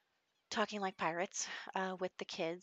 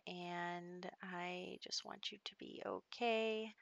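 soft whisper; 5 dB quieter, slower than usual. Real, not acted. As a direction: hush it out gently and slowly. Soothing the crying baby in-game.

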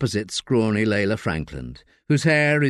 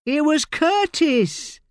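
high, coarse London voice of a desperate addict; Layla, rough addict; much slower than usual. Acted. Addict Layla snapping at detective Josie in interview. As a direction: snap like a strung-out woman in custody.

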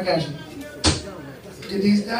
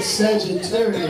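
slow, lower mocking echo of a contestant; imitating his delivery; 4 semitones lower, slower than usual. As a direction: mimic him, drawing out Sagittarius. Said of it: "Look, look how he said it".

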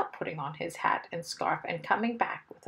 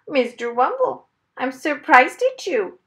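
high, loud parrot voice; reproving parrot; 6 semitones higher, 9 dB louder than usual. A narrator's reading. Parrot scolding Mister Wumble over the broken vase, loud reproof. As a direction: tell him off as a pet parrot would.

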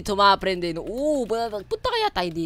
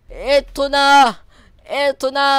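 high, drawn-out cheer of discovery; excited, raised-pitch shout; 4 semitones higher, 8 dB louder, much slower than usual. Real, not acted. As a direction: call out as the goal appears. Excitedly spotting the maze exit.

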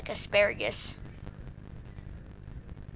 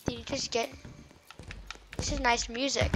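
ordinary talk

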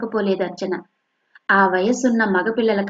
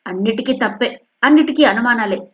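resentful daughter, higher and louder; fuming; 3 semitones higher, 4 dB louder than usual. Acted. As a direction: grumble angrily at mother. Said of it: "రుసరుసలాడుతూ".

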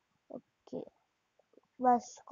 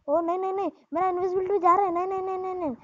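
higher-pitched, urgent string of protests; gamer's mounting alarm, pitched up; urgent dismay; 5 semitones higher, much faster than usual. Real, not acted. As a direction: fret aloud as your cover runs out. Invisibility running out mid-game.

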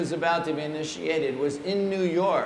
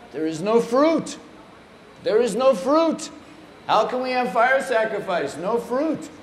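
high-pitched, insistent imitated protest; agitated complaint; 5 semitones higher than usual. Guru finding no fruit for fire sacrifice, agitated complaint. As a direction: hammer each phrase, pitched up.

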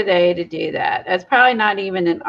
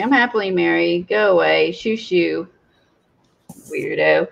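shooing an animal. Retold or imitated. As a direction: shoo them off, dismissive. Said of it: "It's like".

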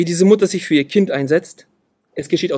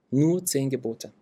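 quiet slow echo; 2 semitones lower, 8 dB quieter, slower than usual. Real, not acted. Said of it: "Und es sind nur zehn Gebote".

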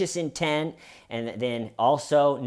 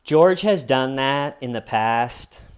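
louder, emphatic retold disdain; mock cold-hearted remark; horrifying tone; 2 semitones higher, 6 dB louder than usual. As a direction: imitate a chilling dismissal. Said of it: "a truly horrifying tone of voice".

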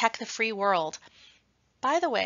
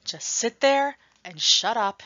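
stern command; 3 semitones higher, 5 dB louder than usual. Acted. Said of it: "then says to all of us".

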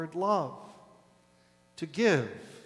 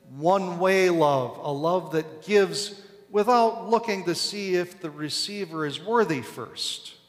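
emphatic preaching; 3 semitones higher, 6 dB louder than usual. Real, not acted.

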